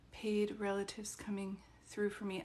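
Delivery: unvoiced whisper under her breath. Real, not acted. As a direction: whisper it to yourself. Aside while reading chat.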